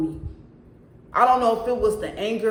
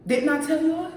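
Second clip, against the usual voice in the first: higher, rising I-told-you-so to the viewers; crowing that the warning came true; 7 semitones higher, 4 dB louder than usual. Real, not acted. Vlogger reminds viewers of her earlier warning, higher and excited.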